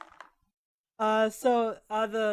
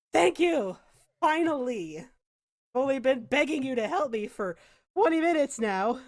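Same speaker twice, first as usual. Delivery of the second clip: indignant thanks; 4 semitones higher, 4 dB louder than usual. Acted. Freed knight indignant.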